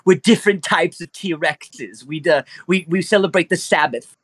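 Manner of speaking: lightly voiced whiny T-Rex; Jewish T-Rex voice. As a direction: explain the family like a fussy T-Rex. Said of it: "Wasn't expecting you to really sound like that".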